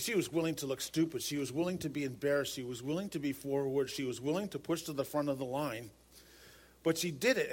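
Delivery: ordinary delivery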